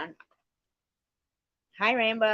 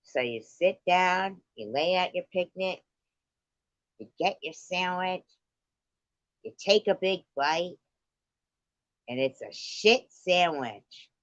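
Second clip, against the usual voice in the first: mock guided visualization. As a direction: ease them into the picnic daydream. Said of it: "she's like".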